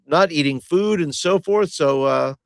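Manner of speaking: formal adventurer announcing findings; proud Hobbs. Acted. Player speaks as Hobbs.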